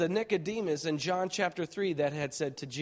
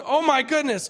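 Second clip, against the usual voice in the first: alarmed gasp; 9 semitones higher, 7 dB louder than usual. Retold or imitated. Terrified in the water.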